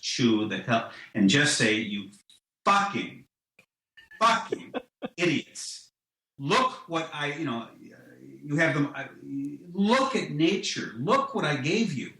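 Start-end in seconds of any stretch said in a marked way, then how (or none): 1.7-12.1 raised, scornful tirade at humanity; angry God lecture. Pretend. God berating humanity with mock anger. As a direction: scold them like a furious disappointed God. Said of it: "I just want us to be lectured in just the most angry way".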